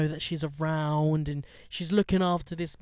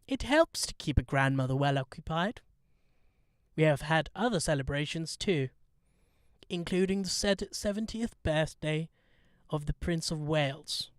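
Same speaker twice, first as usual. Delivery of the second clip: Queen impression. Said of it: "I'm gonna try and do it in the Queen's voice".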